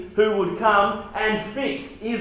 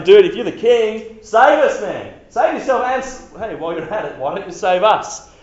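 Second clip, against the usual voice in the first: mocking insult; 5 dB louder than usual. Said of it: "hurled insults at Jesus".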